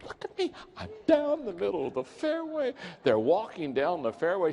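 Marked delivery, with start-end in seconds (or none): 0.0-2.7 pitched high, bursting with glee; excited boasting. Retold or imitated. Bad golfer showing off his drive to his buddy, giddy and high. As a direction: crow about the great shot. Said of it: "He's so excited".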